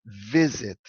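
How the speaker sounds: "visit" with the first syllable VI stressed. Shown as a demonstration. Teacher showing students the stressed syllable, "visit" stressed on VI. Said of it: "é o primeiro sílaba".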